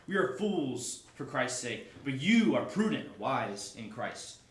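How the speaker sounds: slow, pointed irony; ironic. Acted. Paul contrasting weak apostles with the strong church, ironically. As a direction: lay the contrast on slowly and wryly. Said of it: "You hear how, like, how ironic".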